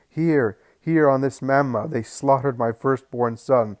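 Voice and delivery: loud, high, desperate shouting; anguished shouting. Acted. Maimed mother shouts her grief at Jesus, loud and high. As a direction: cry out in grief and rage.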